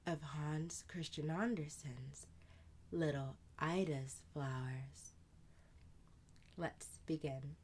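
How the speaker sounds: hushed storyteller introducing tonight's tale. A narrator's reading. Host welcoming listeners to a bedtime story, whispered.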